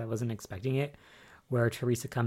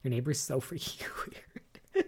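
laughing. Retold or imitated. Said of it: "I'm like".

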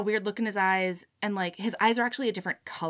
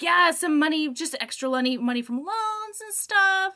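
nervous cover-up; 8 semitones higher, 4 dB louder than usual. Retold or imitated. Character caught out, covering nervously.

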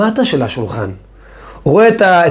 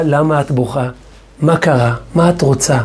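gentle father; 4 semitones lower than usual. Retold or imitated. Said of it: "ואז אני אומר לה".

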